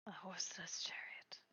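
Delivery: reverent whisper. Real, not acted. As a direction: hush it like something sacred. Echoing in awe.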